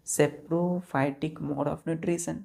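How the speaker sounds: very slow, word by word for note taking; dictating slowly. Shown as a demonstration. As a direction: spell it out slowly so the class can write. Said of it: "उसे हम क्या बोलेंगे?".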